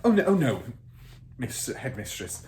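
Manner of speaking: protest, alarmed and earnest; teacher defending her pupil against the headmistress; crying out in protest. Acted. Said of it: "Miss Honey cried".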